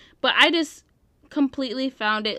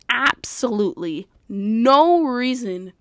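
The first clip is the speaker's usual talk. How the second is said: ABSOLUTELY and NO drawn out slowly; slow, weighty ABSOLUTELY NO; emphatic stress; 3 dB louder, slower than usual. Real, not acted. Emphatic verdict on the fight.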